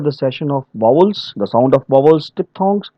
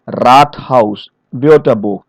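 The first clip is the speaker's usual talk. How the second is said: "Rathaus, Wörterbuch" leaning on RAT and WÖR; first-syllable stress; 3 semitones lower, slower than usual. Shown as a demonstration. Trainer listing German examples, first-syllable stress. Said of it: "we give stress to the first syllable".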